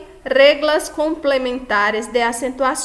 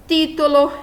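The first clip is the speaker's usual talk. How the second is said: "título" with TÍ high and strong; antepenultimate stress; 4 semitones higher, 4 dB louder than usual. Shown as a demonstration. Teacher giving an example of an esdrújula, "título" with raised first syllable. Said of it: "A sílaba mais forte é a antepenúltima".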